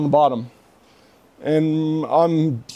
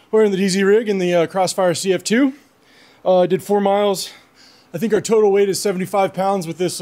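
winded after a hilly ruck; breathing hard between phrases. Real, not acted. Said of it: "That's why I'm out of breath".

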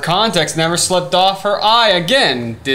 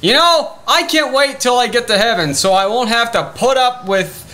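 high-pitched comic rant; exasperated; 4 semitones higher, faster than usual. Acted. Ranting to friend about disagreers, exasperated.

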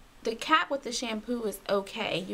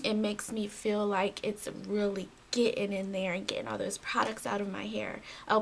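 usual speaking voice

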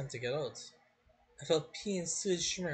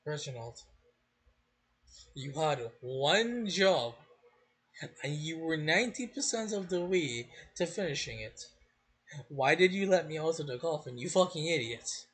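angry scolding. Acted. Scolding Reginald.

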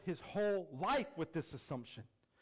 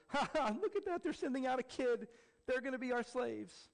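put-on high, jeering laugh at a kid; scornful soldiers mocking a boy; mocking Philistine; 8 semitones higher than usual. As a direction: taunt the enemy, laughing.

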